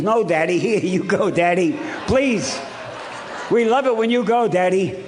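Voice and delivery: a hint of an eager four-year-old begging Daddy; imitating his little daughter urging him out the door; little daughter pleading.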